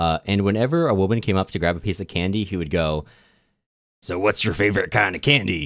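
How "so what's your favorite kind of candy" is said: put-on old man voice. Retelling what an old guy at a bar asked women, imitating an old guy's voice. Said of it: "And roughly that tone of voice".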